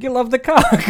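high mock yell at the listener. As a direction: belt out the punchline. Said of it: "I'm just yelling at this girl".

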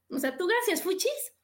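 disdainful thanks. Shown as a demonstration. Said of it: "no cuenta".

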